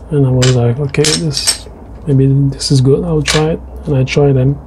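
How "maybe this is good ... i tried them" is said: ordinary delivery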